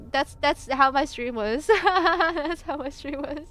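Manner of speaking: slow words through real laughter; laughing. Real, not acted. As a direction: barely get it out while cracking up. Cracks up describing own stream.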